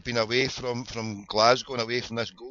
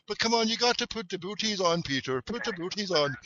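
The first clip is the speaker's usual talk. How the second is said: high, softer singsong urging; imitated bossy lassie; 6 semitones higher, 5 dB quieter than usual. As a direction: mimic a little girl chivvying a boy. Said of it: "to some wee Irish boy there".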